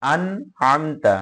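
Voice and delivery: আন said with a distinct n; clear nun. Shown as a demonstration. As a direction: keep the n in আন clear and separate from আমতা. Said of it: "স্পষ্ট".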